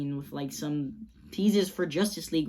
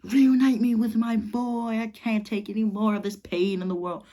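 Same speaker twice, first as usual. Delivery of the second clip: mock bawling; 4 semitones higher than usual. Slade pleading for his son, hammed-up bawling. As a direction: beg through pretend sobs. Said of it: "just bawling his eyes out".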